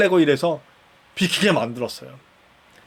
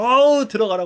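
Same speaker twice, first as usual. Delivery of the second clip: cheerful goodbye; 7 semitones higher than usual. Retold or imitated. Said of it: "웃으면서 인사를 해주시더라고요".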